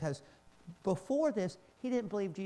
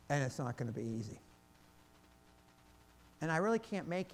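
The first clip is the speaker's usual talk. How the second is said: tender Jesus voice; 4 semitones lower, faster than usual. Acted. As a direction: ask it gently, like Jesus calling Paul. Jesus gently asks Paul to volunteer.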